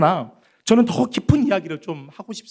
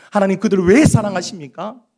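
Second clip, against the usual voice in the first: louder, aggrieved question on 왜; indignant Jonah; 3 semitones higher, 5 dB louder than usual. Acted. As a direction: Jonah protesting God's love, raised. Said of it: "하나님의 그 사랑 앞에서 화를".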